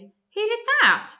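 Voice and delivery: a huge devil demanding who made the stink; booming demand. A narrator's reading. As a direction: bellow it out like an outraged devil.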